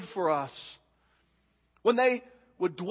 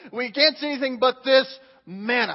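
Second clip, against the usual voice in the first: acted grumble about the food, a bit louder; mock complaint; 3 semitones higher, 4 dB louder than usual. Preacher guessing how Israelites said it, mock complaint. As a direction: complain as the Israelites might have. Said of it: "However you think they said it".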